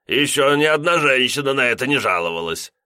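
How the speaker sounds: lightly voiced tipsy flirt; drunken boast. A narrator's reading. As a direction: brag foolishly. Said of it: "пьяно пошутил".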